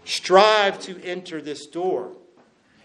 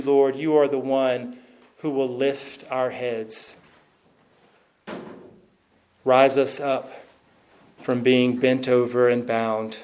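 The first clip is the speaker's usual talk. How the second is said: lower, even praying voice; prayer; 3 semitones lower than usual. Real, not acted. Pastor leads congregation in closing prayer to God, low prayer. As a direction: speak to God in low, measured phrases with pauses.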